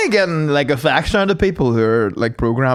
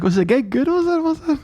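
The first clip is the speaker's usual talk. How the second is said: mum's high eager quiz; 13 semitones higher than usual. Retold or imitated. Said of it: "and she's like".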